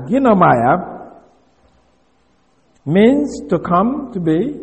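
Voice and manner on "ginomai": Ginomai drawn out slowly, rising at the end; slow Greek pronunciation. Shown as a demonstration. Teacher repeating Ginomai slowly for the class. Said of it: "G I N O M A I".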